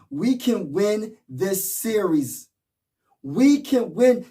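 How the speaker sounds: rally the fans, slow then lifting; rising hype. Real, not acted. Vlogger rallying Sixers fans, building excitement. Hyping fans before game five.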